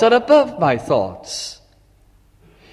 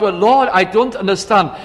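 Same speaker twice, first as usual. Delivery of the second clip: mild raised call to the Lord; 3 semitones higher than usual. Retold or imitated. Worshipper calling out his confusion to the Lord, slightly raised. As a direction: lift the voice a little, calling upward. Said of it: "call out".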